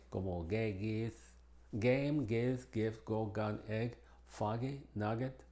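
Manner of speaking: G as in go in gay, game, nugget; hard G sound; English hard G. Shown as a demonstration. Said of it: "Una suave". (G inglesa como en go)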